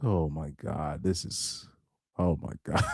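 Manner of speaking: stunned hush. Real, not acted. Stunned after hearing the clip.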